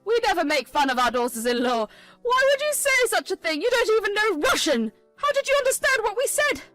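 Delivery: a cornered mother-in-law crying foul; Pauline's shrill protest. Acted. Pauline denies, voiced by narrator.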